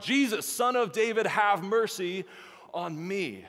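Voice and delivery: loud, high cry for mercy; high, forceful calling out; shout. A narrator's reading. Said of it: "he began to shout".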